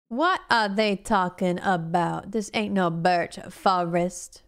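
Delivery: slow, drawn-out mock drawl accent; put-on drawl. Streamer doubting the birch forest label, slow mock drawl accent. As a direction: stretch each word in a playful put-on accent.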